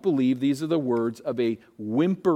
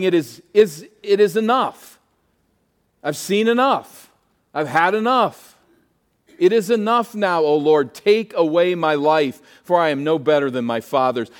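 loud, pleading cry to the Lord, much higher; despairing plea; 4 semitones higher, 6 dB louder than usual. Acted. Elijah crying out to the Lord, loud despairing plea. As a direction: beg God to end it, worn out.

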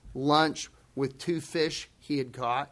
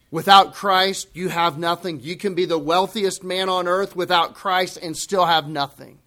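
louder, driving emphasis on without Christ; preaching at full force; 6 dB louder than usual. Real, not acted. Preacher to congregation, building loud emphasis. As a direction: proclaim it to the back row.

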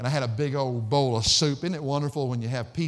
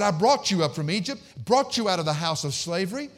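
raised, forceful preacher's reading; emphatic scripture reading; 4 semitones higher, 4 dB louder than usual. Acted. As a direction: declare God's words to the people. Reads God's words with force.

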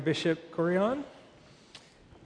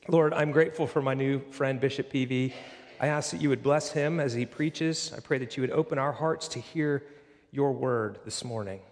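prayer. Real, not acted. Pastor prays aloud.

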